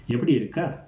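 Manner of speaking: "Yepti irukka" asked, voice lifting on irukka; questioning tone. Shown as a demonstration. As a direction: put a question tune on "irukka". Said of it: "get that questioning tone".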